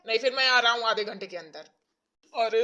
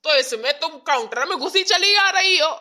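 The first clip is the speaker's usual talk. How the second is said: louder irritated scolding; exasperated clerk; 6 dB louder than usual. Acted. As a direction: scold her, fed up. (झुँझलाया हुआ बाबू डाँटता है)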